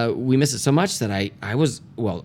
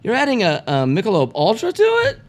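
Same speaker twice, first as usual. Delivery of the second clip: high, shrill outraged rant; angry brewer voice; 13 semitones higher than usual. Retold or imitated. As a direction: squeal it like an outraged owner. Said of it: "Cryostash company is going".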